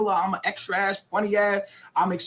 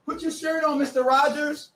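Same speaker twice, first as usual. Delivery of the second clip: laughing; 7 semitones higher than usual. Real, not acted.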